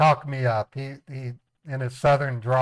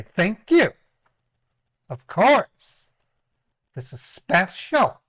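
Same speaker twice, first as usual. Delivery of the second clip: higher, louder put-on female voice; woman's voice; 6 semitones higher, 4 dB louder, slower than usual. Shown as a demonstration. Explaining his phone persona to viewers, higher woman's voice. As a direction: switch to a lady's voice. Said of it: "That's how women talk".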